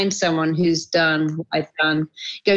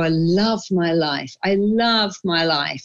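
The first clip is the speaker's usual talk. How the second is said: slow and fond, each love leaning down; slow, savoring affirmation; 2 semitones lower, slower than usual. Shown as a demonstration. Telling the host how she starts her day, slow and savoring. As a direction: savor every word like a morning vow. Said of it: "I wake up and I go".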